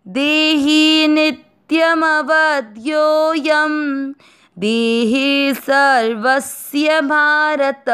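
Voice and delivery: shloka recitation. Shown as a demonstration. Teacher recites the Gita verse for learners, slow chant. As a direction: intone the verse slowly and clearly.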